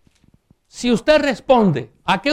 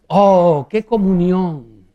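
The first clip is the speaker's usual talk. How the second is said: awed exclamation; 6 dB louder, much slower than usual. Real, not acted. Preacher marvels at communion.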